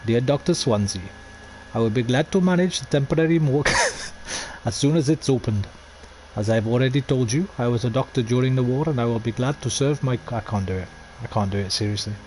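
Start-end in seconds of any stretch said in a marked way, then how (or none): 0.1-10.2 a light put-on Indian accent, reading a letter. Streamer reads a game letter aloud, light mock Indian accent. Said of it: "Shall I do my Indian accent".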